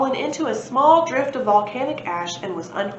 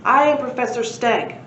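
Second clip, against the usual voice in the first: booming; 3 semitones higher, 4 dB louder than usual. Acted. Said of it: "boomed the Stegosaurus".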